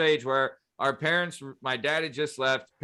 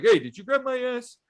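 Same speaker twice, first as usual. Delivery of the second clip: high-pitched movie catchphrase impression; put-on high character voice; big shot club owner; 10 semitones higher, 3 dB louder than usual. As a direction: imitate the club owner confronting someone. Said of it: "He would always say".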